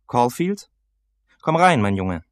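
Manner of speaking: put-on high, loud old-teacher voice; shouting old man. A narrator's reading. Old teacher shouting his student into the room. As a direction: call him in at full volume. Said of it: "Außerhalb des Unterrichts schrie er immer".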